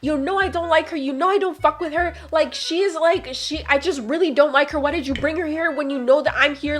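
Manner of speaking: whiny, accusing mock tirade; mild mock yelling. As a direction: pour out an indignant retold rant. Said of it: "April just started yelling at me".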